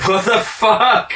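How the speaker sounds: slow, high, laughing outburst; laughing disbelief. Real, not acted. Cracks up at bad impression.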